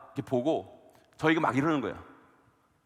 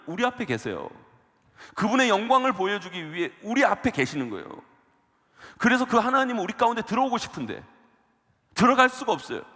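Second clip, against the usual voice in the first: preaching; 6 semitones higher than usual. Acted. Raised preaching voice.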